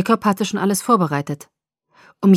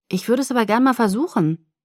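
mildly insistent, pitch lifting; a touch of stubbornness; 3 semitones higher than usual. Acted. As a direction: hold out for what you want. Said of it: "beharrte ich".

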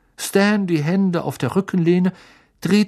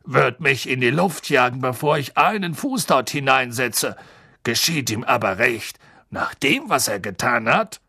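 gruff driver. Acted. Ernie voiced by narrator.

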